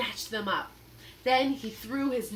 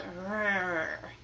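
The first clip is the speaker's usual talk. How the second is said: pirate growl; 2 semitones lower than usual. Acted. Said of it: "the pirate just growled".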